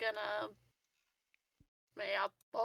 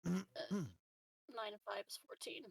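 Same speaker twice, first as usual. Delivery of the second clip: whispered counting; 7 dB quieter than usual. Real, not acted. Adding dice under breath.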